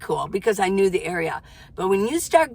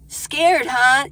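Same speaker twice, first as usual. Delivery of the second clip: teasing; 4 semitones higher, 5 dB louder than usual. Real, not acted. Teasing the nervous viewer.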